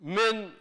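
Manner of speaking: "min" as one syllable; pronunciation demo. Shown as a demonstration. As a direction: say "min" with no vowel after the n. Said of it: "in this word".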